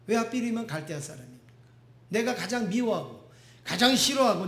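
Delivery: a prophet's angry lament to God, rising; Habakkuk's outburst. Retold or imitated. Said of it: "이 하박국이 막 울분을 터뜨립니다".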